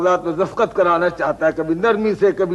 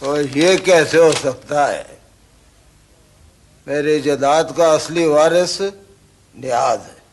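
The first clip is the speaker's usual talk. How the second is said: slow disbelief; slower than usual. Acted. Old man stunned by claim.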